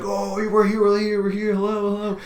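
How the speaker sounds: high, sustained mock calling-out; hammed-up high monotone mom; imitating mom. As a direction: call to the ghosts in a put-on high voice.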